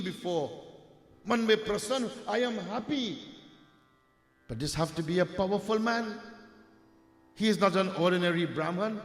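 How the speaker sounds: a king marvelling, curious about the secret; king tells his secretary to find the secret, amazed. Acted.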